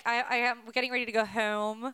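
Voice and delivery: imitated Maryland O in "home"; Maryland accent. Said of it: "it's the O's".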